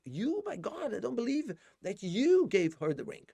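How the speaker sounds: high, slow voice of disbelief; shocked disbelief. Retold or imitated. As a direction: sound like you can't believe it. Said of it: "como se ele dissesse assim".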